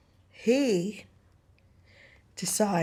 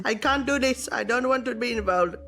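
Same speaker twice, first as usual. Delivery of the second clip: raised, agitated put-on voice; panicked refusal; 3 semitones higher than usual. Second man refuses to behead the king, panicky. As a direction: babble excuses in a higher mock panic.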